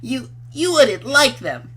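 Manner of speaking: put-on shy girl voice.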